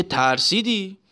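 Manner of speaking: lightly put-on, gruff bully's taunt; the king mocks the scared driver, a hint of bully swagger; Reza Shah's bully voice. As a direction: tease him like a swaggering strongman. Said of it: "با همون حالت توناژ صدای رضاخانی".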